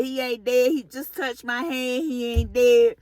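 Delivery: retold alarmed denial; insistent panic. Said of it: "I just ran out the room screaming".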